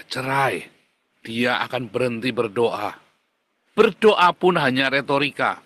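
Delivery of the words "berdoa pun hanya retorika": emphatic. Acted. Repeated for emphasis.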